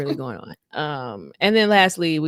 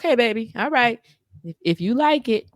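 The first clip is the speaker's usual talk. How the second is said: humoring tone; 3 semitones higher than usual. Retold or imitated. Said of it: "she's like".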